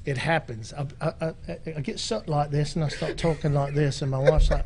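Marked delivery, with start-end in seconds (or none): 1.8-4.0 slipping into a British accent; casual mock-English accent. Shown as a demonstration. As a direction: put on an English accent, Monty Python style. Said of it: "the English comes out".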